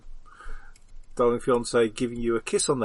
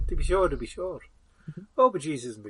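put-on Irish accent; 2 semitones higher than usual. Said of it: "Could be speaking Irish".

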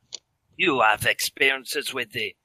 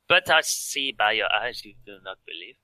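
put-on creepy French accent. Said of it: "so convincing as a creepy French".

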